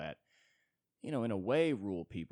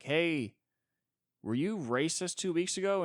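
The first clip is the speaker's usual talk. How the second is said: boss's question; 9 semitones higher, 6 dB louder than usual. Retold or imitated. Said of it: "your boss ... is like".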